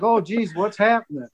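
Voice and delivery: flat, unconvincing mock alarm; badly faked panic. Tim badly faking panic for the prank. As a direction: act scared but fail to sell it. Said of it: "A little more sense of panic".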